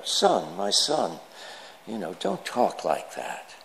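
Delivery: mild, hushed fatherly reproof; gently admonishing priest. Acted. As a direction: chide him softly, with a lift on the advice. Priest gently admonishing swearing trucker in joke.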